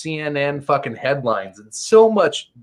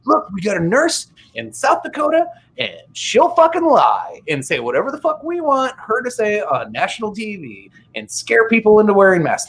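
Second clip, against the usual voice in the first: high, sneering imitation of the media; mock the media in a high voice; 6 semitones higher than usual.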